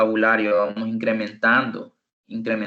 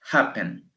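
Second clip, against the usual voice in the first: happen with the force on HAP; stress on first syllable; 3 dB quieter than usual. Shown as a demonstration. Teacher repeats happen for students, first-syllable stress. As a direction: say happen falling away after the first syllable. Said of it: "la fuerza de voz".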